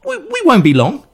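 nervous high. Acted. King hurries reassurance.

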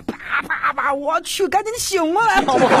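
high-pitched frantic self-rousing; mock panic. Man slaps himself awake from a nightmare, mock panic.

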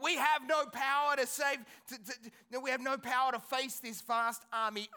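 mock yell to a whole crowd; retold yelling. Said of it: "calling and yelling at, at everyone".

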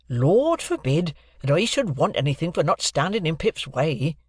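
lightly voiced plain-spoken Joe; blacksmith Joe. Joe refusing payment from the lawyer, lightly voiced honest blacksmith. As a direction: answer with simple honest pride.

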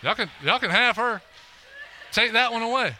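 joking deal, building to a high loud offer; bargaining with bed bugs. Pretend. Preacher bargaining with the bed bugs over his wife, mock pleading voice that climbs high and loud. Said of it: "I'm like".

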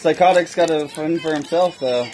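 talking through candy; words around a mouthful of sweets; mouth full. Real, not acted. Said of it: "Sorry, I'm eating a lot of candy".

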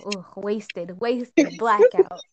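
stack the words up until the last one is shouted; building to a shout. Pretend. Escalating drinking game joke.

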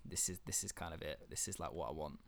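hushed, breathy inner voice; whispered thought. Retold or imitated. Sitting in a coffee shop, musing to himself, in a hushed whisper. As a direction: murmur it as a private realisation.

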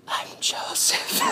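slow, breath-only whisper; whispered reveal. Acted. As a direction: whisper the secret slowly, right up close. Joseph's secret revealed up close.

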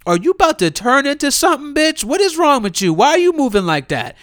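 high-pitched, incredulous questioning; mock alarmed questioning. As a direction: react as if watching a horror monster. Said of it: "she look real like".

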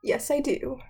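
high, mock-polite housewife invitation; fifties housewife. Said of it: "stay-at-home moms, they're all like".

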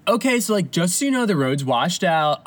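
lightly voiced rookie ranger, starting high; a hint of a laid-back park ranger. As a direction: casually break it to the hikers, slowing at the end. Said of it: "He's like".

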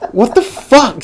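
high, loud mock outrage; retold outrage. Cop mum catching her son's unlicensed driver, mock outrage. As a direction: imitate an appalled mother, pitched well up.

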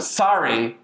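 drawn-out, pointed sorry; aggressive. Shown as a demonstration. Naming the sorry that becomes aggression, pointed. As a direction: lean on sorry as a jab. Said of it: "basically becomes aggression".

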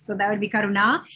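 Karuna with a retroflex r and long final ah; Sanskrit pronunciation. Shown as a demonstration. Teacher confirming the host's name, careful pronunciation. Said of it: "that's where the accent would be".

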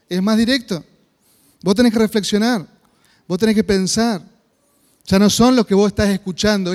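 fervent preaching. Acted. Pastor urging the congregation to reflect, fervent preaching. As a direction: drive the point at the listener like a pulpit appeal.

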